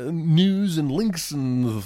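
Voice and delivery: slow, drawn-out Bill Cosby voice; Bill Cosby impression. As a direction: stretch the words like Bill Cosby. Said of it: "You just went Bill Cosby on it".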